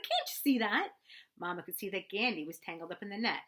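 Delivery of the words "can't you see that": loud, higher protest; shouted. A narrator's reading. Boy shouting back at Mama while the goose flaps, loud. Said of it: "I shouted".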